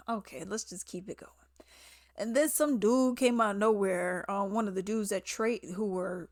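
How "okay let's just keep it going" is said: resigned whisper. Real, not acted. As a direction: mutter it under the breath, giving up. Weary aside to viewers.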